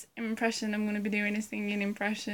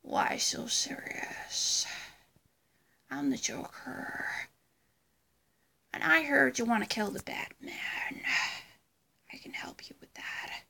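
Joker; 6 dB quieter than usual. Acted. Vlogger doing a Joker impression, sinister whisper. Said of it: "that was my Joker impression".

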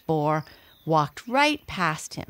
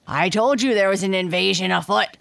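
snorting wild boar; 2 semitones higher, 5 dB louder, faster than usual. Acted. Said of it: "said the other boar".

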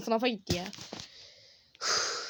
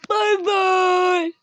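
cheery goodbye; 9 semitones higher, 9 dB louder than usual. Real, not acted. Loud sing-song outro goodbye.

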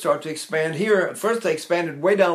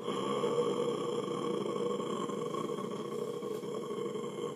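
long, deep sucking gasp of air; demonstrating a maximal gulp of air; huge gasp; 15 dB quieter than usual. Shown as a demonstration. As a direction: haul in a huge breath. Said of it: "if I go a Mueller maneuver and go".

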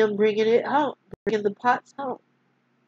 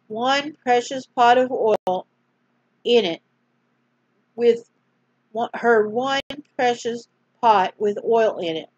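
storyteller reading aloud; story narration. A narrator's reading. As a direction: gently read bedtime-story voice. Reads a Bible story aloud.

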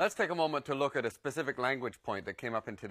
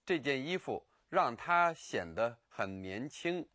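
slow; slower than usual. Shown as a demonstration. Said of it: "This article of clothing".

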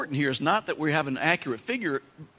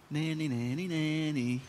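soft sing-song nanny-nanny; tattletale taunt; 6 dB quieter than usual. Acted. Servants tattling on the unforgiving servant, soft sing-song taunt. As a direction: tease like a schoolyard tattletale.

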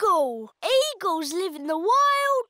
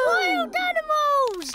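scared shout; 7 semitones higher than usual. Acted. Children frightened in tent.

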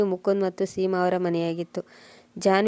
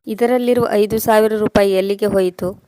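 louder, demanding angry yell; angry shout; 2 semitones higher, 6 dB louder than usual. Acted. Husband angrily shouting at his wife about the missing money. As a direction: bark the question at her in a rage. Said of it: "ಸಿಟ್ಟಿನಿಂದ ಕೂಗಿ ಹೇಳಿದೆ".

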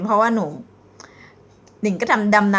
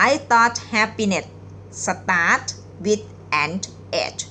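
very slow reading; much slower than usual. Shown as a demonstration. Teacher reading a pickup line very slowly to viewers. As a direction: read each word out slowly, with pauses. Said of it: "หนิงจะอ่านช้าๆนะคะ".

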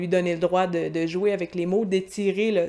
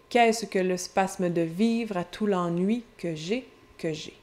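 poem recital. Acted. Teacher reads Soir d'hiver aloud to the class, as a poem recital. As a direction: let each line of the poem breathe.

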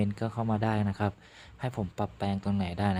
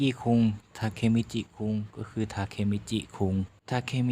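passionate outburst; 7 dB louder than usual. Acted. Heroine passionately encourages hero.

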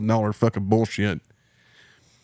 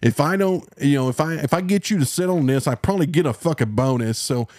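mock confession; 3 semitones higher than usual. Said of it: "just be like".

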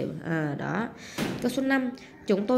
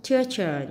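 "teacher" stressed on TEA; stress on first syllable. Shown as a demonstration. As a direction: lean on the opening syllable of "teacher". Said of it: "nhấn âm một". ("teacher" nhấn mạnh âm tiết đầu)

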